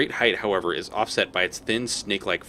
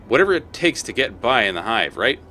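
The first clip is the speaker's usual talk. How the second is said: louder, higher chipper street hawker; cheery collector; 3 semitones higher, 5 dB louder than usual. Acted. Collector hails the player, chipper and loud. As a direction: greet like a friendly grubby hustler. Voices Molt.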